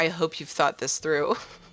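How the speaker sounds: mock sarcastic tone. Retelling a game character's remark about the waiting kingdom: imitating sarcastic remark. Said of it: "so sarcastic".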